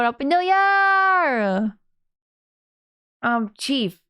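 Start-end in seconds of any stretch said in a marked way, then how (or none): 0.0-1.8 cheerful greeting. Real, not acted.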